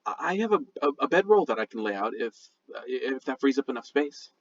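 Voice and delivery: hesitant, stammering offer; timid, halting and apologetic; nervous. Acted. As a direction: trail through it nervously, tripping over small words. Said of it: "looking nervously from left to right".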